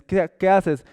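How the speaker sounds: más alto y fuerte, como quien llama; pregunta fuerte. Acted. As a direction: soltar la pregunta con sorpresa. (pregunta alzada por teléfono)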